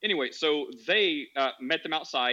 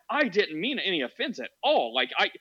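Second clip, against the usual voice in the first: mock shocked; 3 semitones higher than usual. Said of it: "she was, like, shocked".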